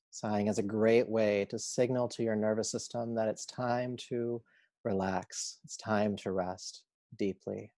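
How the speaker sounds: unhurried meditation guide voice; calm, measured yoga teacher guidance; guided relaxation. Acted. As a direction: lead them gently into rest, leaving long pauses.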